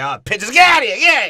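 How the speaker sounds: high, loud comic outburst; Pesci's rage. Acted. Harry shooing pigeons away, high furious yell. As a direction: explode into a mock-furious shriek. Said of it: "taking out his suppressed Italian rage".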